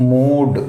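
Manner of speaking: మూడ్ with a long, held oo; long vowel. Shown as a demonstration. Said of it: "ఇది long pronunciation". (మూడ్ లో పొడవైన ఊ శబ్దం)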